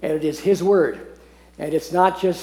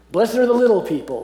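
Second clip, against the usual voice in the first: higher and louder, announcing "Blessed are the little people"; bright proclamation; 6 semitones higher, 4 dB louder than usual. Shown as a demonstration. Preacher announces his translation of the meek, high and bright. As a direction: ring out "little people" like good news. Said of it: "That's how I translate the Old English word meek".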